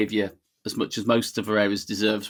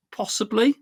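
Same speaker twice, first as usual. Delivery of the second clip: teasing possibly; 12 semitones higher than usual. Real, not acted. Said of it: "a little bit controversial".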